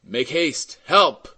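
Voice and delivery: urgent cry rising to loud "Help"; stifled cry. A narrator's reading. Madeleine beneath the cart, stifled cry for help. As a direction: cry out from under a weight. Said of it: "They heard a stifled voice crying".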